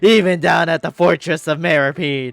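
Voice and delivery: lightly voiced upbeat character; Siege Wing voice. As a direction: read the game line brightly. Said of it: "I'll do the Siege Wing voice".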